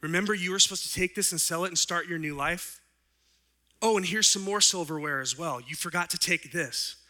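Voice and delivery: kindly bishop pressing a gift on the man who robbed him; bishop's voice. Retold or imitated. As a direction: play the generous bishop, lightly voiced. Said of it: "And he says".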